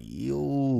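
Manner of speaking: slow, drawn-out mock greeting; mock casual caller. Mocking a caller who rings for nothing, in a drawn-out greeting. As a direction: stretch the greeting out lazily.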